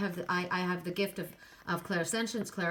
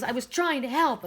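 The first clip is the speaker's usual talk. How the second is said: a mock yell, a little higher and louder; retold yell; 4 semitones higher, 5 dB louder than usual. Retelling how he yelled at her about the car, a mild mock shout. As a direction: bark it the way he did, only half-hearted. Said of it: "then he starts yelling at me".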